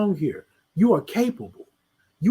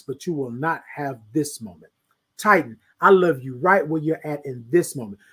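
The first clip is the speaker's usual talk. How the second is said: a slightly lower, tender self-affirmation; affirmation to repeat; 4 semitones lower than usual. Shown as a demonstration. Host guides viewers through a self-love affirmation, tender. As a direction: speak it gently, as if hugging yourself. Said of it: "I want you to repeat after me".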